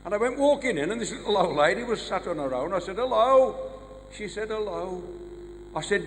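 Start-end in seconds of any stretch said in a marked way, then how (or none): 3.0-3.5 higher, lifted hello; chirpy visitor's hello; bright greeting. Acted. Comedian greets old lady, acted. 4.5-5.0 softer, understated hello; little old lady's muted hello; subdued reply. Acted. Old lady replies, acted.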